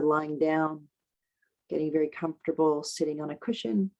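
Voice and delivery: unhurried guidance with long pauses; guided meditation. Acted. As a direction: ease them into the breath, leaving space between phrases.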